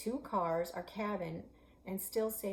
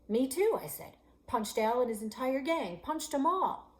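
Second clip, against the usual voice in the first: bragging loudly and higher; loud boast; 7 semitones higher, 8 dB louder than usual. Acted. Girl boasting to the boy, loud and high. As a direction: shout the boast to top him.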